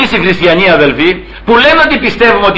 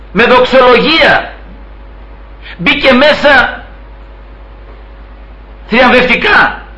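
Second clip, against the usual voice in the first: slow, higher, stretched-out phrases; retold triumphant proclamation; 5 semitones higher, slower than usual. Preacher quotes the Lord on a daughter welcomed in heaven, triumphant. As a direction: proclaim a triumphal entry, drawing out each phrase.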